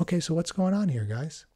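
unhurried, low-key question to calm things. Acted. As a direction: ask calmly, easing down at the end. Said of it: "talk it out in a low voice".

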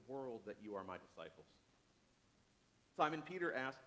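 measured, earnest Bible reading; solemn scripture reading. A narrator's reading. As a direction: read it as a preacher telling the story. Reads a scripture passage aloud.

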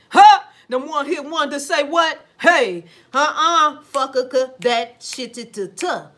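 high, loud, slow scoffing refusal; mock outburst. One-hit wonder loudly refuses to keep playing the industry game. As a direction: drag out a loud dismissive no.

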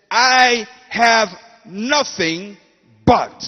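I have nothing stretched out slowly and loud, but punched; drawn-out loud refrain over music; slow dramatic build. Shown as a demonstration. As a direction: preach the line as the turning point. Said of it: "she started constructing a sentence".

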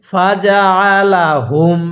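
ফা জা আ লা হুম with আ pressed in the throat, a bit slow; throat-pressed ain. Shown as a demonstration. Teacher showing how to pronounce ain. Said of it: "গলার মধ্যে চাপ দিয়ে পড়বেন".

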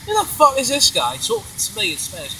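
high-pitched mock bafflement; baffled onlooker. Imitating baffled, laughing Spanish listeners.

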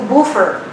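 "buffer" said the Philippine way; Filipino pronunciation. Shown as a demonstration. Speaker joking about local pronunciation, Filipino-style "buffer". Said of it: "as we pronounce it in the Philippines".

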